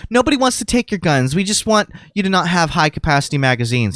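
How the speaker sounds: lightly mocking woman at the rally; mock lady. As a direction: do the lady's reassuring whine. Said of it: "She's like".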